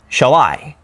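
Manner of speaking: "Shall I" with a light shall and strong I; stress on second word. Shown as a demonstration. Teacher giving an iamb example, shall-I stressed on I. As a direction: lean on the I in "Shall I". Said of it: "Unstressed, stressed".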